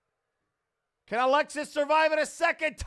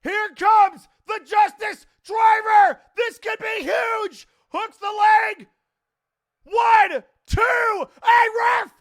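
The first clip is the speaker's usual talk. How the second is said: too hyped; 6 semitones higher, 6 dB louder than usual. Real, not acted. Commentator losing it at the ref over a missed count, hyped yelling. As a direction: yell the near-fall like the title is on the line. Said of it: "I'm too hype".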